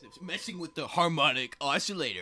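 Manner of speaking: man doing a woman's voice, high and loud; My Mom voice. Retold or imitated. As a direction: squeal it like a shrill mom. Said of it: "in a My Mom voice".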